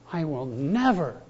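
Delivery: never held as the key word; emphatic never in the repeat; stress on never. Shown as a demonstration. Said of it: "Would you circle that word?".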